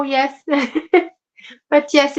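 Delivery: usual speaking voice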